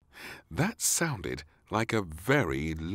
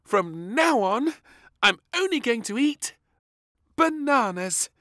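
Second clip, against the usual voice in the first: grin through every word, much higher and louder; with a big grin; 8 dB louder than usual. A narrator's reading. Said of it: "with a big grin".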